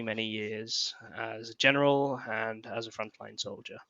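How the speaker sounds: low, soft, measured character voice; Quaimar, veteran general. Acted. General introduces himself telepathically, low and subdued. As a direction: recount the war quietly, voice sinking.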